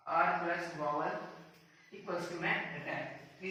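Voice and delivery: slow, softening rule; slow explanation. Shown as a demonstration. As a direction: spell out the rule slowly. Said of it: "इसे हम ड्राई बोलेंगे".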